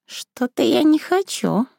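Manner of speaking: meek bleating reply. Acted. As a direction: protest timidly like a lamb. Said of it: "проблеяла Василиса".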